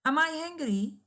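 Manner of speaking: "Am I hungry?" high, with a strong push on I; emphatic exclamatory question. Shown as a demonstration. Teacher demonstrates a positive exclamatory question, emphatic. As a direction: say it like of course you are. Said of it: "expressing a strong positive conviction".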